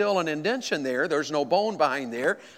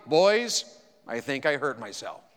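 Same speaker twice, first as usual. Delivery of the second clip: very calm; 4 semitones lower than usual. Retold or imitated. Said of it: "and said very calmly".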